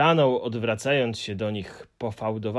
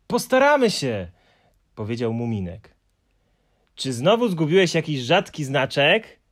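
put-on higher, louder boyish voice; eager Moomin; 4 semitones higher, 6 dB louder than usual. A narrator's reading. Moomin asking the Hemulen about his stamps, eager and high. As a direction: offer help brightly.

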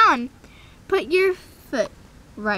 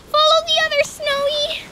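whispered urging; 8 semitones higher than usual. Pretend. Rider urges her horse along in a pretend whisper. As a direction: hush it to the horse.

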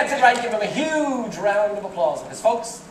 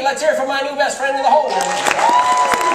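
showman shout; 4 semitones higher, 4 dB louder than usual. Real, not acted. Host calls for applause.

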